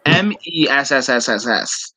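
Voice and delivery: letters with a long run of S; drawn-out s like a snake. Shown as a demonstration. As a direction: spell "M E S S S S S S S" with S repeated. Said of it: "it was spelled".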